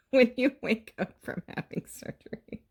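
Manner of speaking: high, loud laughing through the words; laughing tease. Real, not acted. Mom teasing daughter about waking from surgery, laughing. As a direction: crack up while teasing.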